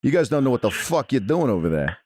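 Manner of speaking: put-on lightly done New York Italian accent; Italian-American accent. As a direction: play a Jersey wise guy on the phone. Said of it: "You should do a fucking Italian accent".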